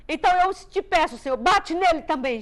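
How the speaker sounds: retold child pleading aloud in prayer; pleading cry. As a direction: cry it up to Jesus, hurt. Child praying for father punished.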